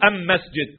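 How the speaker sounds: أم مسجد, the article spoken as am; Himyari dialect. Shown as a demonstration. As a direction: say أم مسجد with am instead of al. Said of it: "يعني مثلًا المسجد يقولوا". (المسجد تُنطق أم مسجد بلام معرّفة ميمًا)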